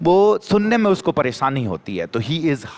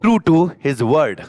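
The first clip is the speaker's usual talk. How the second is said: slow and louder on the key phrase; slow model answer; 3 dB louder, much slower than usual. Shown as a demonstration. Teacher to students showing how to say the answer, slowly. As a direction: say it firmly, word by word, for the class. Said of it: "यूं बोल जाओ sentence में".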